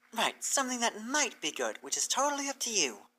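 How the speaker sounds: a flustered mare correcting herself; Twilight's voice. Acted.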